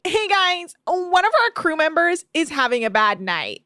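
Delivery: imitating crew member. Acts out Malia addressing crew.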